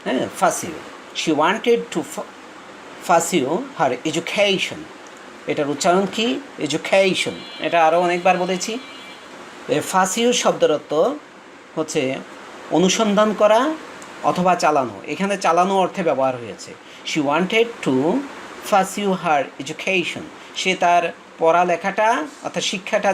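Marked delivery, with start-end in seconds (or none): 1.2-4.8 each word stretched out very slowly; slow reading aloud. Shown as a demonstration. Teacher rereads the sentence for students, very slowly. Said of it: "slow dictation reading". 17.1-20.2 each word stretched out very slowly; slow reading aloud. Shown as a demonstration. Teacher rereads the sentence for students, very slowly. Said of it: "slow dictation reading".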